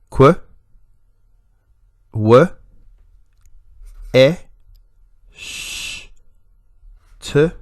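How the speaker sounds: qu, w, e, sh, t one by one, long pauses between; isolated sounds. Shown as a demonstration. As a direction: sound out each phoneme alone, sh as pure hiss. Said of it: "our first sound".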